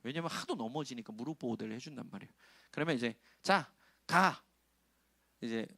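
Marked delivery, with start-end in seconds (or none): 3.4-4.4 put-on slow, drawn-out coaxing to a toddler; mild doting parent voice. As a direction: stretch it out to coax the child. Parent urging toddler to walk.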